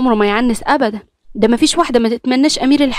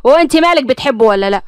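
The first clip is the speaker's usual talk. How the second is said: louder, sharp retort; angry; 3 semitones higher, 4 dB louder than usual. Acted. Brother snapping angrily at his taunting sister. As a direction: grab her arm and snap. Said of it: "قرب منها بعصبية".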